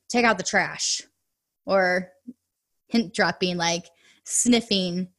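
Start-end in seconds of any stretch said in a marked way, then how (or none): 0.1-1.0 curt command, flat and bossy; the blunt demand a spouse tunes out; blunt nagging order. Shown as a demonstration. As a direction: bark it like a tired nag. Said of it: "Instead of".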